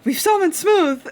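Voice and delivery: high, loud delighted cry; gleeful shout to chat; excited exclamation. Real, not acted. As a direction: announce it like a triumph.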